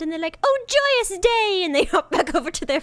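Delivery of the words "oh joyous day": high, louder, slow exclamation of delight; a tiny bird overjoyed, drawn out; joyous sparrow. Retold or imitated. Sparrow rejoicing over croissant.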